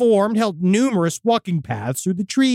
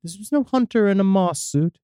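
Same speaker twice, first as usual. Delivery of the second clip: spooky story reading. A narrator's reading. Host reads a listener's demon encounter, spooky story reading. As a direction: read out an eerie first-person account.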